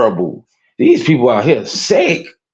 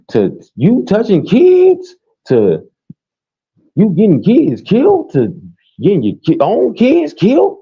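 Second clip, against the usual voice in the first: building rant; 8 semitones higher than usual. Real, not acted. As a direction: escalate each item into outrage. Ranting list of crimes.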